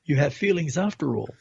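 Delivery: chuckling tease to a brother; teasing laugh. Retold or imitated. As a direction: laugh through the words, ribbing him. Kanag teases tearful brother.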